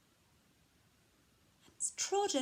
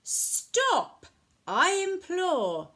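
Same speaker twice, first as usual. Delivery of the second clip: high, louder pleading exclamation; crying out; 8 semitones higher, 8 dB louder, much slower than usual. A narrator's reading. Old lady implores over the greedy pig, crying out. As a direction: cry it out as a storybook plea. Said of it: "The little old lady cried".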